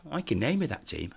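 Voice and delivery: lightly acted Geordie boast; Geordie accent. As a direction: boast in a mock Geordie lilt. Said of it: "this Geordie goes".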